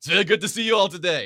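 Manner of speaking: put-on loud Austrian accent. Retelling how the Governor answered your good morning, in Arnold Schwarzenegger's Austrian voice. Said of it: "in his beautiful Austrian voice".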